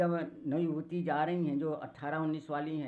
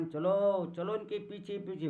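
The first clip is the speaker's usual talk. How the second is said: higher, lightly acted rallying call; eager urging; 4 semitones higher, 4 dB louder than usual. Village women to their friends about following the travellers, eager urging. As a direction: urge companions along, voice lifted.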